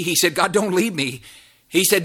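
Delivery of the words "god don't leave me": higher, earnest begging; imitated plea. Preacher voices David begging God, pleading. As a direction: act out a plea not to be left.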